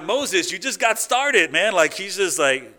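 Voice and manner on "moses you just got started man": louder, higher and slowed, half laughing at Moses; exasperated retort. Retold or imitated. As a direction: scold Moses like an impatient friend. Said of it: "I'm like".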